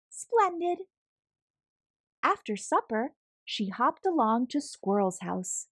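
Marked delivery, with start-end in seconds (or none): 0.1-0.9 much higher, gushing bunny delight; overly cheerful helper; delighted reply. A narrator's reading. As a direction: gush it out happily. Bunny oddly helpful answering Papa.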